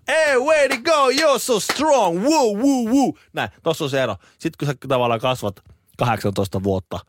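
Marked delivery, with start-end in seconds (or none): 0.1-3.1 very high, slow, loud whooping cheer; cheering American parent. Retold or imitated. American parent cheering a climbing child, high slow whoops. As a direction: whoop it up like an overjoyed American dad. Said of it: "jenkki huutaa".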